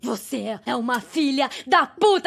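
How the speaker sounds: furious shout. Acted. To the friend who slept with her ex, an angry shouting threat. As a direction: spit it at her, then raise the voice.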